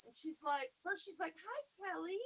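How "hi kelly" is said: high-pitched imitated hello; mimicked greeting. Old bully greeting Kelly, mimicked in a high voice. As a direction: put on the other woman's high hello.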